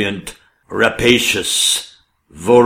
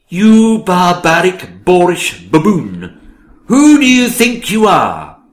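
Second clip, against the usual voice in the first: angry; 7 semitones higher, 3 dB louder than usual. Acted. King insults her, rising anger.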